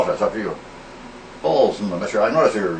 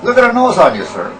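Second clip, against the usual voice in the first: much higher and louder, jeering at his nose; mocking shout; 8 semitones higher, 7 dB louder than usual. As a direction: bellow the insult with a sneer. Insulting the teacher.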